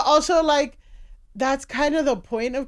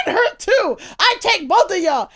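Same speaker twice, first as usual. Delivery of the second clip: raised, louder mock catcall; imitating a man yelling at women; retold catcall; 6 semitones higher, 5 dB louder than usual. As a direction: holler it like a brazen street catcaller. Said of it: "he's like".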